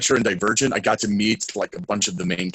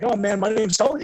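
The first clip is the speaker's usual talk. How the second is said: eager intro; 12 semitones higher than usual. Retold or imitated. Self quoted.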